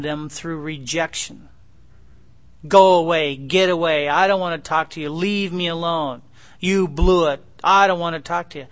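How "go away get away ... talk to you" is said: put-on harsh, loud dismissal of a child; rejecting father. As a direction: push the child away with a loud brush-off.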